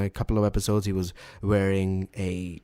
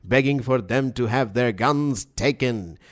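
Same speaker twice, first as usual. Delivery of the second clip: Alex Jones; slower than usual. Acted. Co-host quoting a furious gun tirade, ranting impression. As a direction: hammer out a defiant rant, stretching the last words. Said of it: "your Alex Jones impression".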